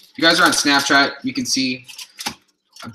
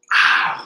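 real yelp of pain; 4 dB louder than usual. Real, not acted. Vlogger hurting from a burn, pained ow. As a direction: let out a sharp ow. Burn hurts mid livestream.

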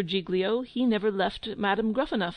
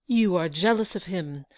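tearful cry; 4 dB louder than usual. Acted. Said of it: "cries Gruffanuff".

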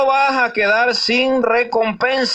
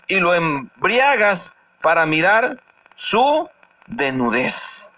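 slower second reading, each word dwelt on; slow, weighty rereading; slower than usual. Shown as a demonstration. Preacher rereads the warning slowly to the congregation. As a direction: read the verse again slowly and deliberately. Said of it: "Voy a repetir el texto".

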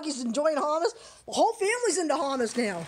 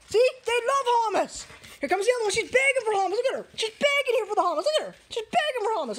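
pet talk; 6 semitones higher than usual. Real, not acted. Cooing at her dogs eating.

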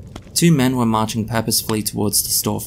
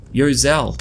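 calling out; 4 semitones higher, 4 dB louder than usual. A narrator's reading. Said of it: "Seth called".

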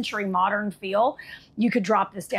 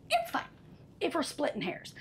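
whispered aside; 4 semitones higher, 10 dB quieter than usual. Real, not acted. Whispered aside about the cabinet.

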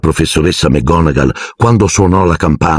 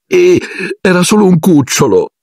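alta e spezzata, un accenno di pianto; singhiozzando; 13 semitones higher than usual. A narrator's reading. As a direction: Lavanda piagnucola tra le lacrime. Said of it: "singhiozzò Lavanda". (Lavanda piange il suo cucciolo, voce rotta)

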